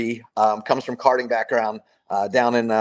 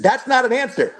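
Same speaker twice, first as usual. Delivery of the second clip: put-on sassy kid voice; 11 semitones higher than usual. Five-year-old daughter challenging dad.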